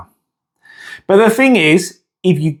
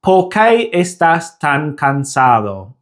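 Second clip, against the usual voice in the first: slow Spanish in an English accent, puffing p, t, k. Shown as a demonstration. Teacher demonstrating learners' bursts of air, English accent. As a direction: say the Spanish with English aspirated consonants and vowels. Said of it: "spoken with an English accent".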